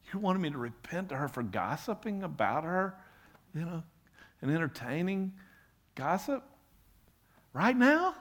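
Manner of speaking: rising protest, can't believe it; incredulous. Retold or imitated. Paula objecting to God in the middle of the service, incredulous.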